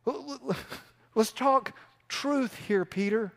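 stern Jesus. Retold or imitated. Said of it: "and sternly says".

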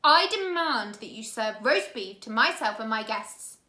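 loud, scratchy menacing villain voice; angry villain. A narrator's reading. Count Olaf angrily laying down the law to the orphans. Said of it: "eyebrow raised in anger".

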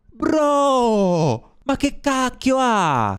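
high, drawn-out cry falling away; alarmed wail. Real, not acted. Player startled by the game character, alarmed wail. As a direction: stretch it out in shocked disbelief.

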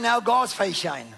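slow, loud, ringing proclamation; preaching shout. Acted. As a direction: call it out to the congregation.

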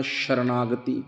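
ਸ਼ਰਨਾਗਤੀ with a clear sh at the start; with the sh sound. Shown as a demonstration. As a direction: say ਸ਼ਰਨਾਗਤੀ with sh, slowly. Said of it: "ਸੱਸੇ ਨੂੰ ਬਿੰਦੀ ਲਾ ਕੇ ਪੜ੍ਹਨਾ". (ਸ਼ਰਨਾਗਤੀ ਬਿੰਦੀ ਵਾਲੇ ਸ਼ ਨਾਲ)

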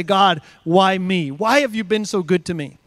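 a gentle, amazed thank-you to God; grateful why me. Shown as a demonstration. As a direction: ask it in humble gratitude. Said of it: "an attitude of gratitude to say".

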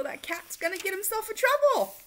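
high warning voice; hint of worried relative. A narrator's reading. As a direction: worry aloud. Worried family voice.

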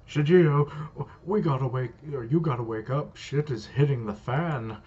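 loud, urgent call to wake someone; urgent yell. Acted. Dimple shouts at Shigeo to wake up, loud and urgent. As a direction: shout to wake him, panicked.

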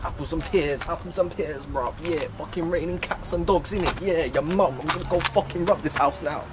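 lightly put-on Cockney accent; half-hearted Cockney patter; attempted Cockney accent. Shown as a demonstration. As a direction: try a Cockney geezer accent, not very convincingly. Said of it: "It doesn't even sound Cockney".

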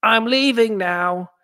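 high, slow whisper; whispered exit. Acted. Leaving the party, to the crowd: high slow whisper. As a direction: breathe it out as you slip away. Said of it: "the nightclub that goes".

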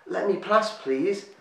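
a tiny woodland creature begging to get by; small creature pleading. A narrator's reading. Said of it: "said Jub".

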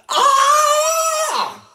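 extremely high loud scream; top-range scream. Shown as a demonstration. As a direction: hit the very top note. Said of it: "right at the top of the range".

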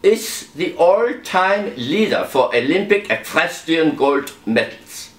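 mock German accent, lightly done. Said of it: "an opportunity for my German accent".

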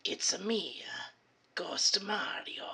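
slow, drawn-out spooky Mario reveal; Mario impersonation. Acted. Revealing his costume to his friend, lightly hammed-up Mario. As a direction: unveil yourself grandly as a ghost Mario. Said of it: "I have the best Mario impersonation ever".

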